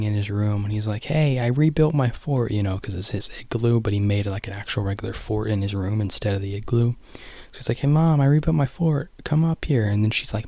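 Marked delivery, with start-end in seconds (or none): 1.0-2.5 slightly higher, drawn-out call; lightly voiced boy. Boy announcing his rebuilt fort, lightly voiced. Voicing excited boy in film retelling. 7.8-9.9 higher, calling out to Mom; lightly voiced boy. Boy calling Mom to his fort, lightly voiced.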